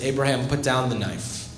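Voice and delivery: low, soft voice of God, firm but gentle; God's low, calm command. Acted. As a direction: settle it quietly as God. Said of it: "God says".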